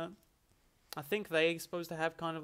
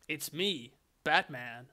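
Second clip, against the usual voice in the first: lightly voiced generic American hero; same stock American hero voice, lightly done; Batman; slower than usual. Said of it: "They all sound exactly the same".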